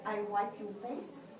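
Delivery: put-on French-accented broken English, pitch lifting at the end; gently mimicked French accent, questioning lilt. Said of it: "in her French accent and with broken English".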